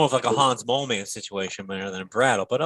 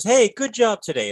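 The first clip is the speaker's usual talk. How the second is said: higher, drawn-out friendly compliment; mock cheery praise; 7 semitones higher than usual. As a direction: imitate someone handing out cheerful praise, slowly. Imagined praise nobody gives.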